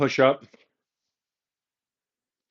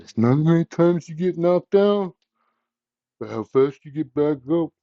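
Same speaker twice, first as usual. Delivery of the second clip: lightly mock the boxer's tough-guy line, badly; horrible Rocky impression; 3 semitones higher than usual. Yoga teacher quoting Rocky to her class, a clumsy mock Rocky voice. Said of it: "That was a horrible, horrible impression".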